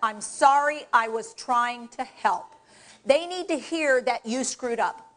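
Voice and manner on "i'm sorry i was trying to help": slow, deliberate apology; sincere apology. Shown as a demonstration. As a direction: spell out the sorry slowly, like you mean it. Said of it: "You need to be willing to say".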